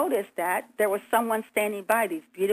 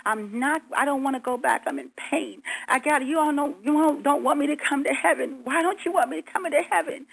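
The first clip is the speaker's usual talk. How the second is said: higher-pitched protest, a mild mock scream; retold screaming plea; 5 semitones higher than usual. Woman retelling her plea at heaven's gates, mildly screamed. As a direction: plead insistently, voice pitched up, short of a real scream. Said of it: "I started screaming".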